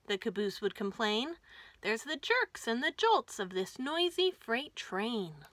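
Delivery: lively rhyming storybook read; reading to children. A narrator's reading. Host reads the caboose book aloud to kids, lively. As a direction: bounce the rhymes for little listeners.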